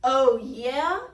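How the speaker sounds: loud monster challenge, rising; bellowed challenge. A narrator's reading. Bigfootosaurus confronting the boasters, loud bellow. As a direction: bellow it as a threat. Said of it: "he bellowed".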